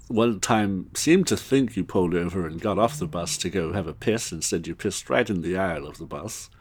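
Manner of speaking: lightly put-on English boss; Hugh Grant. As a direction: reel off complaints in a polite British voice. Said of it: "trying to do more of a Hugh Grant".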